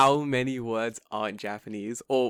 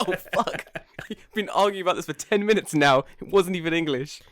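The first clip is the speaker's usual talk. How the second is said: mock dismay; 6 semitones higher, 5 dB louder than usual. Teacher's dismay acted amid laughter.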